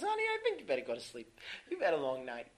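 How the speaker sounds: high, quick wife voice; placating wife. Acted. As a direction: coax a husband off to bed. Voicing the wife placating her husband.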